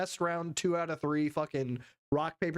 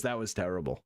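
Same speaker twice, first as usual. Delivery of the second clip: lower lip-read voice; 11 semitones lower, faster than usual. Retold or imitated. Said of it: "He goes".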